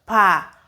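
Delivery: PA with an open ah, no final k; word start held up as an example; sounded-out first part. Shown as a demonstration. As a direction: say "pa" alone, stopping before the k. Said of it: "you pronounce pa".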